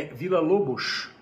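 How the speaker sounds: "Villa-Lobos" drawn out as a correction; professor's corrected pronunciation. Retold or imitated. Professor corrects his Brazilian student, pedantic pronunciation. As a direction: imitate the professor stressing "Villa-Lobos" slowly. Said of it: "corrigir a minha pronúncia de Heitor Villa-Lobos".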